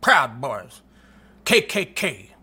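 mock him lying in bed, aghast; hammed-up disgust; mocking Sean King. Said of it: "and he's like".

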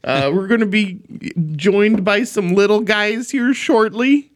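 put-on hammy Minnesota-accented show welcome; mock Minnesota accent. Host welcomes listeners live in Minnesota, mock Minnesota accent. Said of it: "we're recording live in Minnesota".

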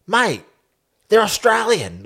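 high, curt mock brush-off; mock Aussie coach brushing off reporters; dismissive. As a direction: imitate a blunt coach waving it off. Eddie quoted dismissing Cobras question.

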